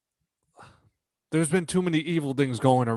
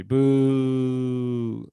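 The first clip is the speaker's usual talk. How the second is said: crowd booing. Pretend. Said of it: "fans who are, like, booing you".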